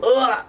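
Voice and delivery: high strained groan; stretching groan. Real, not acted. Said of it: "my back hurts".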